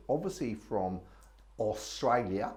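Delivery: lightly put-on Australian accent; a hint of Australian accent on 'Australia'. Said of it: "Don't do your Australian accent".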